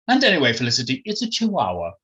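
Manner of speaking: self-satisfied posh retort; smug. Acted. Jemima correcting Felicity about the breed, smug. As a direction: score the point with lilting satisfaction. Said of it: "retorted Jemima smugly".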